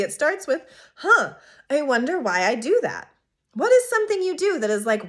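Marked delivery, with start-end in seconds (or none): 1.0-3.1 curious wondering. Shown as a demonstration. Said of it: "It starts with the curiosity".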